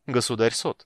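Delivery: teasing. Acted. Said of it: "немного поддразнить брата".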